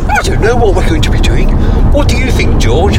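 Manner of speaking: lightly voiced puppet; a hint of a kids' TV puppet; puppet voice impression.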